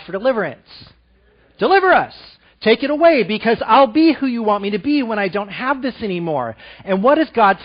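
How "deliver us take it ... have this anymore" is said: high, loud pleading to God; desperate mock prayer, raised high; pleading cry. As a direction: beg God to take it away. Voicing our plea to God.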